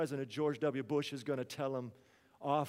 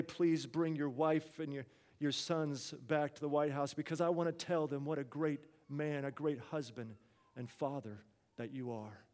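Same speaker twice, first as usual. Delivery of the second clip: softly lowered, heartfelt tribute; sincere praise; 3 semitones lower, 6 dB quieter than usual. Retold or imitated. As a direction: let the praise sink gently to a hush. Retold president praises departing staffer.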